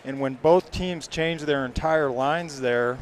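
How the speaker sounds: brisk live hockey call; play-by-play. Acted. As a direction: call the action as it happens.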